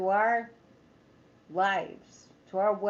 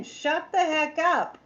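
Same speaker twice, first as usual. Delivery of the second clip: blunt retort; 5 semitones higher, 3 dB louder, slower than usual. Real, not acted. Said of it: "I could be ruder".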